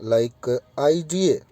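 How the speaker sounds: "आईडीए" said very slowly, each sound drawn out; slow model word. Shown as a demonstration. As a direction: spell out "आईडीए" slowly for the class. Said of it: "इसका मैं बोल के दिखा देता हूँ आपको". ("आईडीए" बहुत धीरे बोलें)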